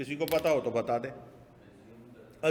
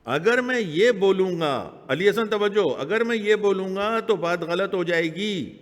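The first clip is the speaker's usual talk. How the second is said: emphatic warning; 3 semitones higher, 6 dB louder than usual. Real, not acted. Teacher warns the class, emphatic.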